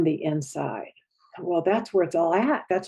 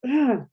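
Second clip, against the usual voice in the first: 1 angry grunt; 6 semitones higher than usual. Shown as a demonstration.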